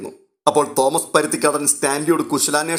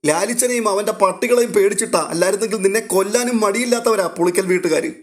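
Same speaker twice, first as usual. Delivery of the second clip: put-on higher, urgent old man's warning; an old man cautioning his niece, higher and urgent; worried old uncle; 7 semitones higher than usual. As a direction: warn her like a fretful old uncle. Old uncle warns Aleena.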